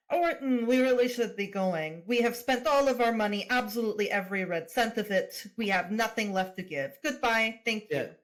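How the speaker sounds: loudly staged, hammed-up excuse; mildly over-acted rescue of a friend; theatrical. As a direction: lay it on thick for an audience. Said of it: "very theatrically put an arm".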